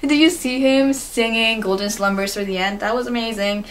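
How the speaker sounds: a fan gushing to bored classmates, excited; gushing fangirl. Retold or imitated. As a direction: gush like a thrilled fan. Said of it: "I'm like".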